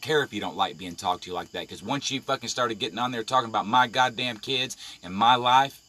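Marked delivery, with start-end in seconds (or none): 3.7-5.8 bursting out loud; real anger spilling over; angry outburst. Real, not acted. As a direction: voice jumps up on life. Angry rant about his kids.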